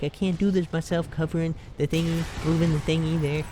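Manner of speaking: retold fed-up complaint; retold exasperation. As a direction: gripe about being left alone, lightly acted. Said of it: "I was getting all mad".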